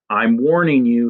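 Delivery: put-on a brave kid's fierce threat; fierce warning. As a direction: warn him off, standing your ground. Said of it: "in that fierce, bold way he has".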